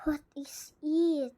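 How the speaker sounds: slow whispered question. Real, not acted. Gamer asking about something creepy, whispering. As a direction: whisper it, wary of what's ahead. Scared question while playing.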